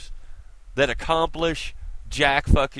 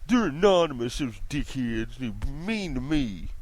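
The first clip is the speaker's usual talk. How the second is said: mock whiny Tavis. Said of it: "sit up there and say".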